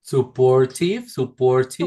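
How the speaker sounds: "Supportive" slowly, ending in short "tiv"; pronunciation model. Shown as a demonstration. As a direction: model "supportive" slowly for a learner, -tive like "give".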